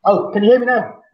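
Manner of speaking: muffled, boxed-in line; in a fridge. Real, not acted. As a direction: talk from inside a fridge. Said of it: "It sounds like you're in a fridge".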